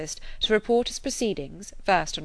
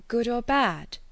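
quick; 5 semitones higher, slower than usual. A narrator's reading. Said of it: "said she quickly".

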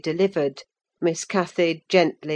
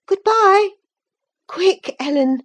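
high, louder call; 7 dB louder than usual. A narrator's reading. Cathy calling goodbye and hurrying Ellen, high call. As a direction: hurry them away with a shout.

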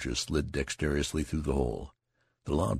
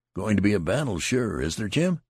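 eager question; 6 semitones higher, 5 dB louder than usual. A narrator's reading. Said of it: "he asked".

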